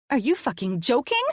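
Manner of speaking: high shrieking outrage; shrieked. A narrator's reading. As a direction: shriek it in disbelief. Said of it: "I shrieked".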